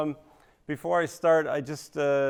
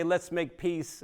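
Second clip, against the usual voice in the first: mock Canadian; 4 semitones higher, much slower than usual. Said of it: "Canadians say".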